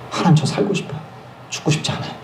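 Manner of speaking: breathless whisper, begging; whispered plea. Retold or imitated. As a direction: plead in a whisper. Pleading with God in fear. (하나님께 속삭이듯 애원하는 목소리)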